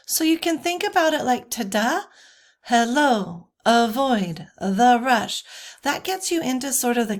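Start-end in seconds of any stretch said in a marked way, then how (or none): 1.5-2.0 "tada" with the weight on "da"; light "ta", strong "da" in "tada"; iambic stress. Shown as a demonstration. Teacher showing the cadence, end-stressed "tada". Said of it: "second syllable". 2.6-5.4 "hello", "avoid", "the rush", each hit on the second syllable; iambic stress. Shown as a demonstration. Teacher demonstrating the cadence, end stress on "hello, avoid, the rush". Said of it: "second syllable".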